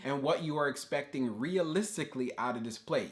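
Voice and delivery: "realistically" given extra weight; stress on realistically. Shown as a demonstration. To viewers planning a trade, stressing "realistically". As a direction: lean on the word "realistically". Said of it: "You see how I emphasize the word realistically?".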